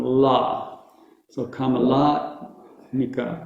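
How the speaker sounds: "Kamalatmika" with LA held long; one long A. Shown as a demonstration. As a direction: stretch only the middle LA in "Kamalatmika". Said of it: "It only has one long A".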